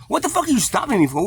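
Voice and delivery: high-pitched, exasperated demand; retold protest with pitch jumping up; indignant challenge. Challenging the officer who stopped him for nothing, indignant.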